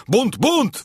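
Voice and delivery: very high, ringing repeated alarm; alarmed cry. A narrator's reading. Captain rushes in shouting mutiny, alarmed cry. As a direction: raise the alarm, pitch soaring. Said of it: "woła".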